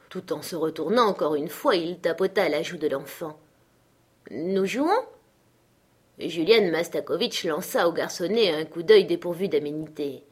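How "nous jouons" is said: lightly voiced child, questioning lift at the end; small girl's tentative question; little girl. A narrator's reading. Little girl answering the man bent over her, childlike.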